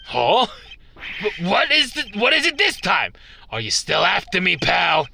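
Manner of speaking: lightly hammed-up alarm; alarmed detective. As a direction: play the jumpy detective.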